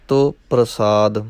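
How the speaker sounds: measured, careful recitation of sacred verse; intoned verse for learners; scripture recitation. Acted. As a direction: recite each phrase distinctly, holding the endings.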